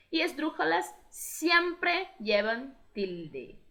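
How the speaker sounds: slow emphatic rule. Shown as a demonstration. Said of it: "teacher stressing accent rule".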